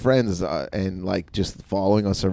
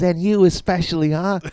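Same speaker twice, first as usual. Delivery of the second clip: higher-pitched mock accusation; retold heckler; 8 semitones higher than usual. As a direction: imitate a heckler singling someone out. Heckler singles out the teller.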